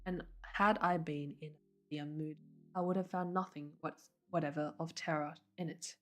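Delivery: soft read-aloud storytelling; story narration. A narrator's reading. Streamer reads viewers to sleep, soft story narration. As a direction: read it softly, as if to sleepy listeners.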